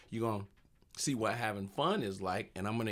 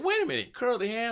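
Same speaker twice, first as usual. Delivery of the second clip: much higher startled call-out; mock surprise; 10 semitones higher, 3 dB louder than usual. Comedian spotting the curly-haired kid, in a high mock-surprised call. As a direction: pretend to notice him suddenly.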